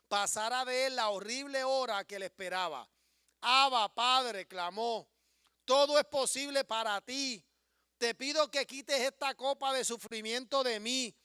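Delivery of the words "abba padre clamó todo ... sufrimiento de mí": fervent prayer. Acted. Voicing Jesus' prayer.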